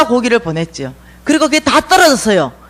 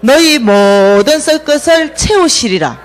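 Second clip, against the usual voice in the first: slow group recitation; slower than usual. Shown as a demonstration. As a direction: lead the congregation reciting, word by word. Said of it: "시작".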